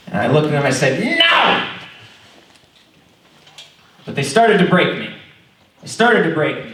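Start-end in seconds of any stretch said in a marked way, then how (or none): 1.2-1.7 sudden loud high no; family pushing pills, he shouts no; shouted no. Retold or imitated. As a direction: bark a flat refusal, much louder.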